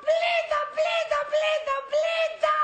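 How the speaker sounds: insistent repeated wail of boredom; exasperated complaint. Acted. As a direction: complain over and over, holding the pitch up.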